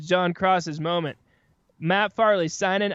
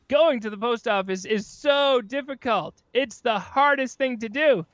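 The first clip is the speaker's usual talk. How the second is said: higher-pitched mock ad complaint; mock complaining; 4 semitones higher than usual. Podcaster mimicking commercials about the post office, mock complaining. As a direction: exaggerate the hardship like an ad. Mocking commercials' fake problems.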